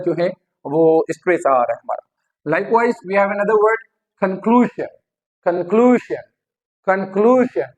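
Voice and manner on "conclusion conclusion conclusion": "conclusion" as kun-KLU-zhun; stress on KLU. Shown as a demonstration. Teacher drilling the stress rule, stressed on KLU. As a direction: lean on the middle of "conclusion". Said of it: "क्लू पे जो है वो stress".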